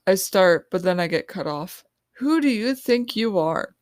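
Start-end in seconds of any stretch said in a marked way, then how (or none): 2.1-3.7 snarling. A narrator's reading. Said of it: "Rachel snarls at me".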